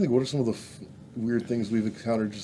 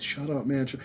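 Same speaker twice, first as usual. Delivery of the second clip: soft shush; 2 semitones higher, 6 dB quieter than usual. Retold or imitated. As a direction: gently tell him to pipe down. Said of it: "like, soft".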